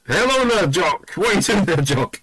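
high, eerie ghost calling out; ghostly voice. Retold or imitated. Soldier's ghost calls to him in the cold toilets, eerie high voice. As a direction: call out like a spooky disembodied voice.

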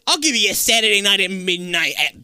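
puffed-up smug offer; smug boss brushing him off; mock boss voice. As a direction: talk down to him like a big shot. Imitating the theater owner.

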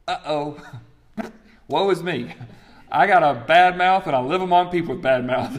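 playfully panicked prophet; mock dismayed Isaiah. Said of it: "That's what he basically says".

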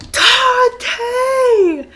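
high, laughing shout of a name; calling out. Retold or imitated. Frat guy calling across campus, shouting. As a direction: call across the lawn.

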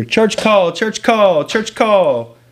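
high, loud guard's call; repeated loud call. Retold or imitated. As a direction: sing it out down the cellblock. Guard calling out in jail.

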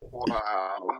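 breathy whispered wow. Real, not acted. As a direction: whisper it, taken aback. Reacting to the prompt.

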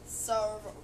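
voice crack. Real, not acted. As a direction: let the voice crack mid-word. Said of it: "I'm having voice cracks right now".

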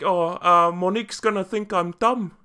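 playful New Zealand impersonation; mock Kiwi accent. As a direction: quote it in exaggerated Kiwi. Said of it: "it's, it's like".

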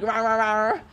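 low, soft mock growling; imitated growl. Imitating the woman growling in her ear, mock growl. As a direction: growl out nonsense syllables under your breath. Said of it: "like, a growl in my ear".

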